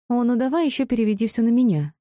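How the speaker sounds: indignant. Acted. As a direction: push back, offended at the blame. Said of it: "возмутилась Дайон".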